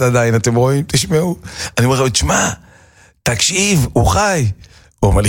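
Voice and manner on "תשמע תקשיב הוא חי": גבוה ונרגש, משכנע בלחץ; לוחש בבהלה לחבר שהגופה זזה; התרגשות מבוהלת. Retold or imitated. נער מבוהל משכנע את חברו. (קול נער נלהב ומבוהל)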